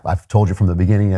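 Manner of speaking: ordinary delivery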